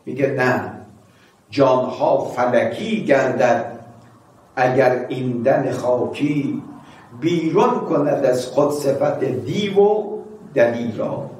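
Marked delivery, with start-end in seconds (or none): 1.5-11.3 slow poem recital. Acted. Preacher repeating the verse to congregation, slow recital. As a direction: chant the verse slowly, word by word.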